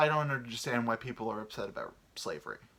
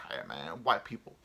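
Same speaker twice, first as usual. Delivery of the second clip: mock voice; 7 semitones lower than usual.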